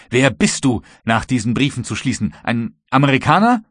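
angry interrogation. Acted. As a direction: demand who he really is. Kapitän verhört den Matrosen ärgerlich. (ärgerlich erhobene Stimme im Verhör)

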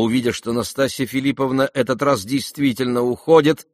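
ordinary delivery

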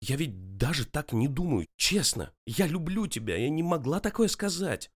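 holding back tears. A narrator's reading. Girlfriend pleading with her angry boyfriend through held-back tears. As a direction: swear it, fighting back tears. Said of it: "выкрикнула она, едва сдерживая слёзы".

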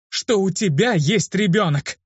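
high, slow, outraged cry; exploding in anger. A narrator's reading. Girl exploding at Luke about his child, slow and high. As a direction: blow up at him. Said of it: "неожиданно взорвалась".

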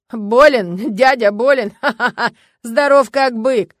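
громко, со смехом и удивлением; рассмеяться над нелепым вопросом; смеясь. A narrator's reading. (Варягин хохочет над вопросом Любы о больном дяде, громко)

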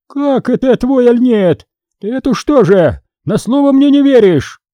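high, loud outraged challenge; indignant outburst. A narrator's reading. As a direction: hurl it back at him in offended disbelief. Boyarynya outraged at the десятник. (возмущённо, высоко и громко)

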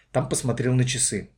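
plain reading voice

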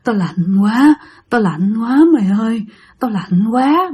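acted moan of a cold spirit; ghostly moaning. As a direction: groan it slowly, as if freezing. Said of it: "Mà cứ nghe tiếng rên". (giọng ma rên rỉ vì lạnh)

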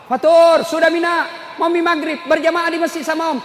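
high, loud call across the field. Retold or imitated. Uncle calling nephew off the futsal field, loud high call. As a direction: shout for the boy to come pray.

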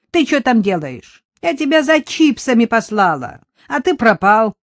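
громко и выше, с упрёком; бранит через стену; отчитывает мужа. Acted. (продавщица отчитывает Анатолия через подсобку)

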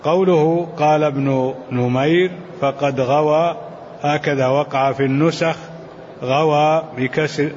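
measured classical Arabic text reading; deliberate recitation of a commentary, phrase by phrase; formal read-aloud. Acted. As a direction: read the scholarly text out evenly.

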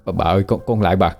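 put-on boy clinging to her leg, begging for mercy; plead, voice climbing to a frantic high cry. A narrator's reading. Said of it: "van xin".

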